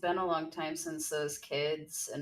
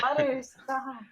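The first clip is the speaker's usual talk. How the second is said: higher, louder call to stop; shouting; 7 semitones higher, 4 dB louder, slower than usual. Real, not acted. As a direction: shout it at a friend. Yelling at friend to stop.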